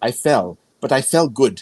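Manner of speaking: put-on heavy, strong German accent laid on. Quoting what she'd say when calling the family, in a heavy German accent. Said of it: "she would say in her very German accent".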